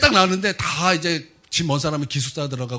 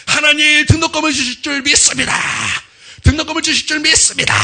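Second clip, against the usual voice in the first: desperate earnest prayer; 11 semitones higher, 8 dB louder than usual. Retold or imitated. Student prays on the mountain for tuition, desperately crying out. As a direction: belt out an acted mountain prayer with all your might. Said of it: "그렇게 막 간절히 기도하고".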